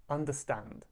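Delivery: "Understand" with the beat on STAND; stress on final syllable. Shown as a demonstration. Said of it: "Stand is a little bit more stressed".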